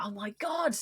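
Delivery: breathless whisper of amazement; whispered disbelief. Retold or imitated. Whispering stunned reply to the Liverpool dad's praise. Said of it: "And I was like".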